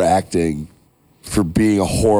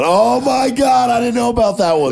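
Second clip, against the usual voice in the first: laughing in disbelief. Real, not acted. Amazed at beer can bacon.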